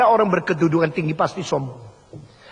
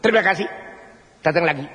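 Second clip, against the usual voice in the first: rote greeter; 2 semitones lower, faster than usual. Retold or imitated. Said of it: "Jadi seperti gini loh".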